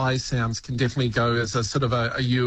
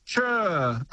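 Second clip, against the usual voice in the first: Kiwi "Sure"; 3 semitones higher than usual. Shown as a demonstration. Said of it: "you just say".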